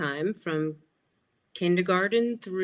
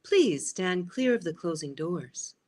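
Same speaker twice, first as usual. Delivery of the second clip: lightly voiced monorail announcement; measured public-address style, lightly imitated; recorded announcer. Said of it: "hearing that voice saying".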